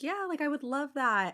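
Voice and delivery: high, slow, sugary agreement; mock eager friend. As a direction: play the eager friend saying yes.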